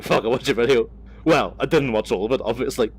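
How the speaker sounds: mock-excited viewer quoting the vlog; emphatic quote. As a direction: hit the opening fuck with gusto. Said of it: "Usually it's like".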